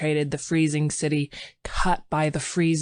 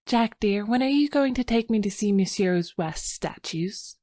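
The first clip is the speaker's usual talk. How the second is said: higher, lightly voiced bright young wife; 6 semitones higher than usual. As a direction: brighten up to change the subject. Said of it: "she spoke up brightly".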